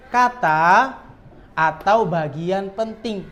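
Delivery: "kata" after a pause, rising, then "atau bagian penting" slowly; slow phrasing after a deliberate pause; pause before it. Shown as a demonstration. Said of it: "jeda dulu".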